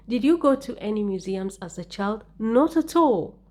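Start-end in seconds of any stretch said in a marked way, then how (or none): 2.4-3.4 Not at all. slow, high and loud, falling at the end; raised-voice emphasis. Shown as a demonstration. Teacher modelling exam answer, emphatic raised Not at all. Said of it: "So raise your voice".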